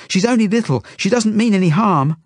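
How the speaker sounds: very high, loud, desperate plea; pleading shout. A narrator's reading. Narrator begs the soldier to spare Zelda, pleading shout. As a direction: cry out to stop a blow. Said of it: "I shout".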